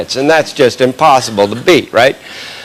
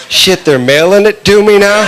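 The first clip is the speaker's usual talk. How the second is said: thrilled addict; 6 semitones higher than usual. Pretend. Coke addict gets powder in the mail.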